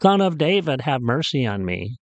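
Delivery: mock yell that settles on the plea; retold shouting. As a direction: act out a beggar's cry without fully shouting. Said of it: "shouting at the top of his lungs".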